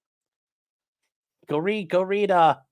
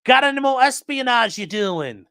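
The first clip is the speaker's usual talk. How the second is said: much higher, loud hammed-up Australian accent; mock Australian accent; 12 semitones higher, 6 dB louder than usual. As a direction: greet a neighbour like a cartoon Australian, loud and high. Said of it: "he's an Australian. You can be like".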